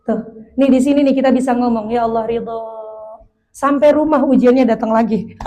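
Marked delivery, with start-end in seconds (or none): 1.9-2.6 softer, slightly lowered surrender; soft prayer of acceptance. Acted. Speaker models what we can say to Allah, gentle surrender.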